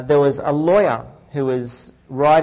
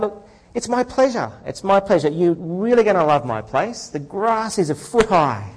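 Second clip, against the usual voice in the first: higher, cheerful lawyer landing the punchline; 4 semitones higher than usual. Acted.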